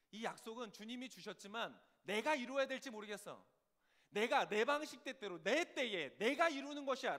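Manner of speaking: loud, emphatic resolve, building to a slow declaration; self-willed insistence. Acted. Preacher voices a doubting David taking over, insistent. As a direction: insist on doing it your own way.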